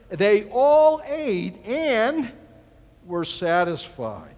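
reading the verse slowly, drawing it out; slow scripture emphasis. Acted. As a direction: stretch out they all ate, slowly.

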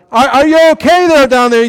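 high, loud call down to a friend; yelling down. Retold or imitated. Roofer yelling down to his fallen partner, loud call. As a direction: shout down the roof. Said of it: "the guy yelled down".

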